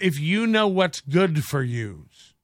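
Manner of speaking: slow mock tough-guy threat. Mocking Kevin's argument, slow mock tough-guy threat. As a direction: sneer it like a wannabe tough guy. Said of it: "When you start throwing out".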